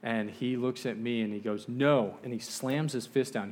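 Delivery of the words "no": short, louder retold refusal; mad refusal. Chief slamming his fist down, mildly angry refusal. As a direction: cut him off with a firm no. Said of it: "He's starting to get mad".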